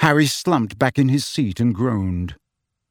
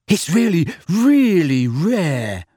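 beaming; 4 semitones higher, 3 dB louder, slower than usual. A narrator's reading.

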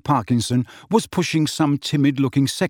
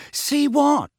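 Ron voice; 13 semitones higher than usual. Acted. Ron voice, high.

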